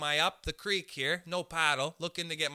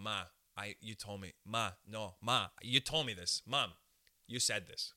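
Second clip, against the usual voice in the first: mock quiet pleading; 7 semitones lower, 5 dB quieter than usual. Young self arguing with mom.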